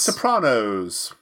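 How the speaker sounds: "Sopranos" drawn out slowly with an ah vowel, so-PRAH-noze; own pronunciation of Sopranos. Real, not acted. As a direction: say "Sopranos" slowly and deliberately, stretching the broad AH. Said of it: "I noticed that you say The Sopranos".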